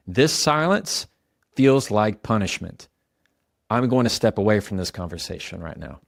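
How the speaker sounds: measured, even and calm; calm statement. Shown as a demonstration. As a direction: say it steadily without pleading. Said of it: "You hear that?".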